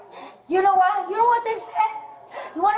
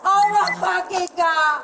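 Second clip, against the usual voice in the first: distressed wailing. Real, not acted. Cries out she is losing baby.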